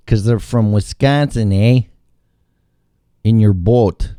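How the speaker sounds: mock Upper Midwest accent; playful northern Wisconsin accent. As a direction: imitate a Wisconsin neighbor's accent. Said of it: "People only talk like that when".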